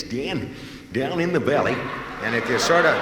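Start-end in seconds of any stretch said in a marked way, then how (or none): 0.0-1.8 lightly voiced folksy sidekick; Walter Brennan. Comic doing a mild Walter Brennan impression to the audience. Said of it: "Walter Brennan talks like this".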